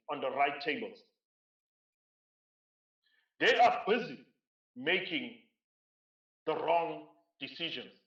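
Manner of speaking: slow, emphatic delivery with weighty pauses; measured phrase by phrase, letting each point land; very slow, deliberate. Real, not acted. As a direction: say it slowly so it sinks in. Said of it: "I want to say this very slowly so that it sinks in".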